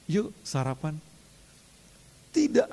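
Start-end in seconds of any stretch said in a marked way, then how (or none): 0.1-0.9 soft, breezy "Yuk sarapan" with a lift on yuk; casual invite. Retold or imitated. Jesus inviting Peter to breakfast, casual and soft. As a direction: say it like a friend, no judgement. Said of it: "Ngomongnya gitu".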